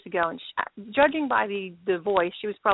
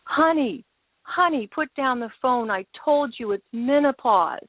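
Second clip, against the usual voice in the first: dad's voice. Retold or imitated. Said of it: "I hear a male voice".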